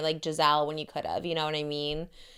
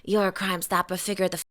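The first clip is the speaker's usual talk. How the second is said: Boston accent impression. Shown as a demonstration. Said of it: "That's pretty good".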